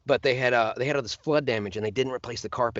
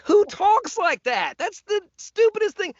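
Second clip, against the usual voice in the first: high, slow, louder Kermit mockery; mock the odd voice; high put-on frog voice; 6 dB louder, slower than usual. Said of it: "And I was like".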